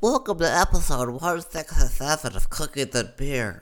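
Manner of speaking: high, silly put-on podcast intro; mock twat voice. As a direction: send up your own voice as a squeaky host. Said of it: "I'm gonna sound like a fucking twat".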